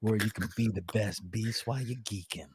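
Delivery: smooth it out like a late-night DJ; sexy radio voice. Pretend. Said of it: "I'm about to go into my sexy radio voice".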